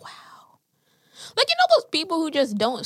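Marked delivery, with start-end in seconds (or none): 0.0-0.6 breathless whispered wow. Retold or imitated. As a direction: whisper it in disbelief. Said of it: "I was like".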